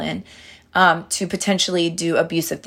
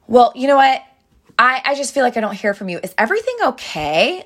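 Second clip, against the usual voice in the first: sassy reproach; 5 semitones higher, faster than usual. Retold or imitated. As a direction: needle him with a bit of sass. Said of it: "And the sass comes out".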